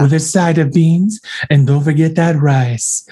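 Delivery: lightly voiced sultry commercial read; sexy ad voice. Mocking the chicken ad woman, hint of a sultry read. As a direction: purr the sides like a seductive ad. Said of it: "And she's like".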